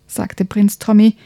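lively bedtime story narration, hushed at times; reading to children. A narrator's reading. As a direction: tell it like a bedtime story for kids. Reads a children's book aloud. (Kindergeschichte vorlesen)

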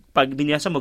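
normal talking voice

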